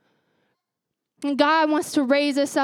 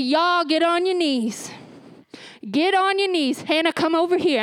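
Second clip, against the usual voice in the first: grandma calling; 2 semitones higher than usual. Retold or imitated. Grandma calls the kids to kneel, commanding. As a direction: call the grandkids in firmly.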